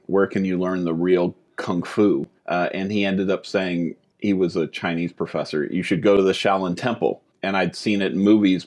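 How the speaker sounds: lisping around a retainer; slight retainer lisp; wearing a retainer. Real, not acted. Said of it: "causes a little lisp".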